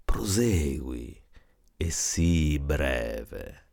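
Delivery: slow, sneering command; mocking. Skeptical brother telling Elias to hurry, mocking. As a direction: dismiss his tale with scorn. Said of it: "con accento beffardo".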